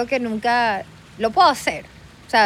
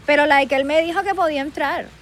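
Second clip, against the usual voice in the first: put-on higher-pitched Miami girl; Miami accent; 5 semitones higher than usual. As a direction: protest at the door in Miami Spanglish. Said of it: "El acento Miami". (acento de jevita de Miami)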